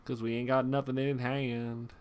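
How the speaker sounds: southern twang. Real, not acted. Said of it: "I've gotten very southern".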